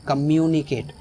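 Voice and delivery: "कम्युनिकेट" with the weight on "म्यु"; stress on MYU. Shown as a demonstration. Teacher repeats "कम्युनिकेट" correctly, stress on "म्यु". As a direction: lean on the "myoo" in "कम्युनिकेट". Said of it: "एम यू वाला जो portion".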